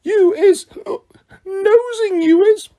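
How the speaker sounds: jab it out like a tipsy elf; Winky accusing Harry of nosing; accusing drunk elf. A narrator's reading. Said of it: "Winky accusing Harry".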